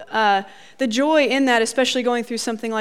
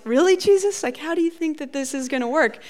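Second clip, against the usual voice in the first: disbelief; 4 semitones higher than usual. Retold or imitated. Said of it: "you're like".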